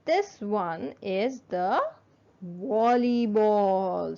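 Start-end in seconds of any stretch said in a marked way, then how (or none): 2.4-4.2 volleyball said slowly and clearly, wɔlibɔl; teacher models volleyball slow and clear; slow model word. Shown as a demonstration. Teacher to children, slow clear model word. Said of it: "match it with the word volleyball".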